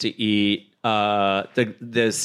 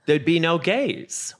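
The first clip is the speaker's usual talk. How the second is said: much higher, slow, laughing through the words; laughing answer; 8 semitones higher, slower than usual. Real, not acted. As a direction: giggle out the punchline.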